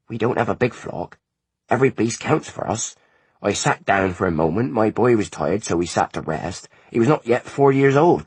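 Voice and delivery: put-on an old grief pouring out; lamenting mother. A narrator's reading. Mother telling the visitors how she lost her son, mildly lamenting.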